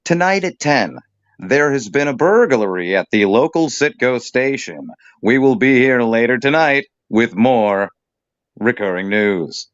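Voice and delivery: mock local-news anchor read; newscaster voice. Mocking the co-host's style, a lightly done anchor read. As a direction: announce it like the ten o'clock news. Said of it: "this newscaster style of voice".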